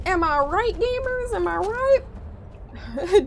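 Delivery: high, very slow drawn-out call; hammed-up hype. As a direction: stretch it out to the crowd. Calling to chat.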